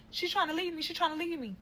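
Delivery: whiny high mock sobbing plea; mock crying. Grown man crying to mom on phone, mimicked high and whiny. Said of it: "He's crying".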